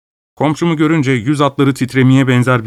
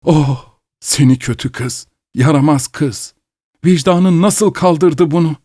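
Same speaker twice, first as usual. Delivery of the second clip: moaning reproach; 7 semitones higher than usual. Acted. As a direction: scold her while groaning. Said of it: "bir taraftan da inliyordu".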